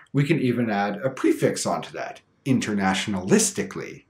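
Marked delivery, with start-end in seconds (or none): 2.4-4.0 "internationalistically" with main stress on LIS; stress stays put. Shown as a demonstration. Teacher adding a prefix, "internationalistically" still stressed on LIS. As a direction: carry through "internationalistically" to a punch on LIS. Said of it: "the stress will remain the same".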